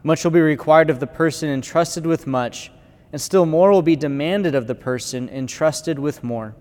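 solemn proclamation of Scripture; gospel reading. Acted. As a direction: read it like at the altar, measured.

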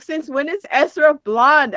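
incredulous challenge. Retold or imitated. Retelling how she challenged her mistaken friend, incredulous.

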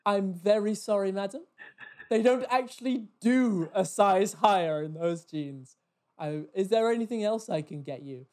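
posh and pointedly courteous; really posh. Retold or imitated. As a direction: put on posh, over-polite service voice. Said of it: "I went really posh".

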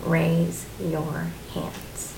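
very slow, patient instruction; voice of God. Retold or imitated. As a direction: stretch out every word, unhurried, as God would. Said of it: "he, once again, he goes".

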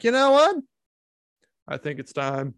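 hammed-up vengeful boss, then a menacing hush; mock Blockbuster boss. A podcaster voicing Mister Blockbuster deciding to collect.

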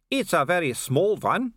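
high-pitched mocking villain; taunting werewolf villain. Werewolf mocking the watchman's badge, high and taunting. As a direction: belittle your enemy in a high voice.

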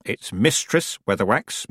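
slow, with weight on Mistress; pointed correction. A narrator's reading. Granny corrects the rival witch's title, pointedly. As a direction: lean deliberately on "Mistress".

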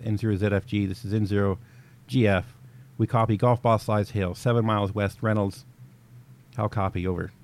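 crisp formal radio acknowledgment; net control reply. Shown as a demonstration. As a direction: read it back like net control. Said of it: "N zero G F would respond with".

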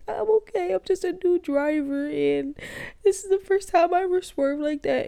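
very high, distressed new-driver voice; shaken, whimpering reply. Acted. Rattled driver reassuring the cop after a swerve, high panicky whimper. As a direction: act out a frightened high-pitched whimper.

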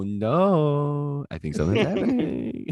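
badly faked panic, drawn out; pretend freak-out. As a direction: put on an obviously fake freak-out. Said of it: "or I just pretend to".

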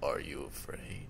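very low, soft questioning; mock deep voice. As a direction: interrogate in a put-on deep voice. Keeps mimicking deep voice.

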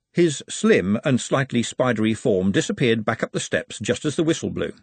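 ordinary delivery, nothing marked

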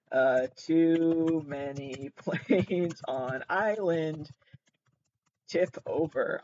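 slow mock quote. Repeating the old reference slowly.

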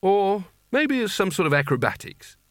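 high-pitched grasping at an innocent explanation; desperate disbelief. A narrator's reading. Rincewind refusing to believe his own eyes, desperately hopeful. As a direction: pitch it up, hopefully clutching at straws. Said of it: "in a desperate attempt not to believe".

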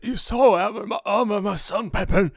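mock-tender fatherly call; hammy doting father. Father answering his son, hammed-up. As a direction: overplay the proud dad. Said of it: "and he goes".

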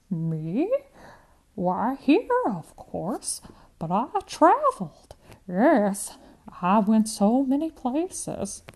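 put-on old woman slipping into a Russian accent; reminiscing with a clearer Eastern European accent; stronger accent. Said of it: "The accent is stronger".

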